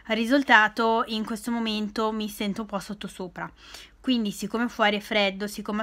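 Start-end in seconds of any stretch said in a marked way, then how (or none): 1.1-3.5 whispering. Real, not acted. Confiding aside about feeling unwell.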